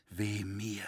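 a broken sigh of woe; whispered woe. A narrator's reading. Roritzer mourning the cathedral, whispered woe. Despairing lament.

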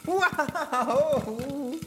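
high excited gasp of joy; delighted surprise. Real, not acted. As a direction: squeal as it finally pops. Popcorn finally pops.

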